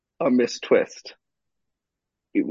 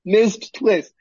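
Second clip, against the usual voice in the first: incredulous demand. Retold or imitated. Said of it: "stared him down ... being like".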